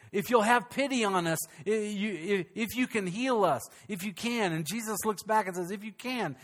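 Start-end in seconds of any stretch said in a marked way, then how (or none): 0.1-4.5 a desperate father's hesitant, halting plea; pleading father. Retold or imitated. Father begging Jesus to heal his son, halting plea. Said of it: "He goes". 5.7-6.4 softer, pointed echo of "If you can"; incredulous echo. Retold or imitated. Jesus echoing the father's doubt, incredulous and quiet. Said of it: "Kinda like, "Do you not know who I am?".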